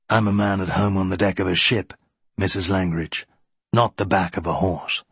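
slightly low, brisk naval officer; hint of a reserved gentleman at sea; lightly voiced captain. Captain declining to enter the race, lightly voiced.

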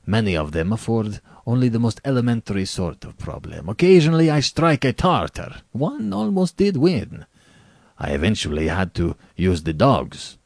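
brisk General, rising with relish; boastful General. Acted. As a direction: recount it with smug pride.

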